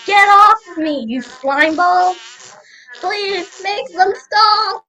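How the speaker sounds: high, frantic plea; disgusted pleading. Acted. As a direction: beg for help against the slime creatures. Begs to be freed from creatures.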